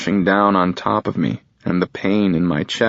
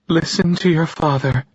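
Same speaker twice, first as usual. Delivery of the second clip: mother's voice; 10 semitones higher than usual. Acted. Mother in shock.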